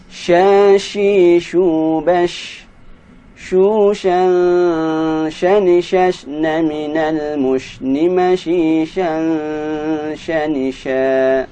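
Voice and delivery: teacher modelling shin syllables; recitation drill. Shown as a demonstration. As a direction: chant each shin syllable clearly. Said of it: "drill syllables".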